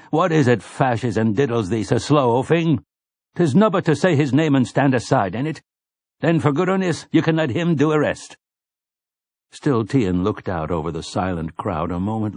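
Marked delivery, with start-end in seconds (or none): 0.1-8.4 put-on raised, rough old man voice; an old man needling, raised pitch; snarling old grandfather. A narrator's reading. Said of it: "snarled the voice in his mind".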